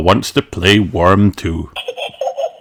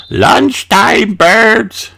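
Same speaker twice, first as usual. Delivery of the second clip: much higher sing-song call; Granny calling birds; 13 semitones higher, much slower than usual. A narrator's reading. Granny calling the birds to the feeder, high call. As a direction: call the birds over to eat. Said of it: "she calls".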